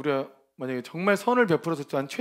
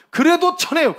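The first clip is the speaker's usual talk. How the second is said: emphatic; 11 semitones higher, 8 dB louder than usual. Real, not acted. Preacher urging congregation.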